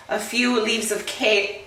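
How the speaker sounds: talking through hiccups; words broken by a hiccup. Real, not acted. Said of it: "sorry, I have hiccups".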